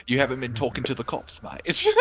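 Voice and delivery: a hint of an Aussie accent, landing near New Zealand; attempted Australian accent. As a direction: try the Australian accent, lightly. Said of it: "That sounds more New Zealand".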